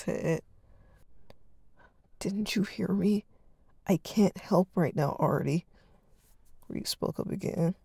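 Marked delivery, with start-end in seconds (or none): 2.2-5.7 slow, strained attempt at sternness; forcing a stern tone he doesn't feel; trying to sound stern. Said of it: "trying to muster in his voice to sound stern".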